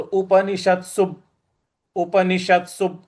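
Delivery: उपनिषत्सु with a hit on the half त; उपनिषत्सु demo; stress on त्. Shown as a demonstration. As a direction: punch the त् in उपनिषत्सु. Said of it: "इस प्रकार से इसको बोलेंगे".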